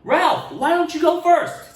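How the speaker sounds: teacher voice. Acted. Teacher asking Ralph to share first, high and sweet. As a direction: coax him to go first.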